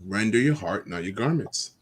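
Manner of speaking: slow, solemn Bible reading; scripture reading. Acted. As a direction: read it like scripture. Reads scripture aloud.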